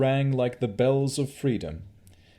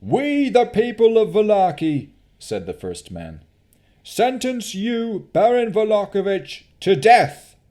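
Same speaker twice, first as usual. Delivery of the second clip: solemn sentence; 12 semitones higher, 9 dB louder than usual. Acted. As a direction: pronounce his death. Man pronounces sentence.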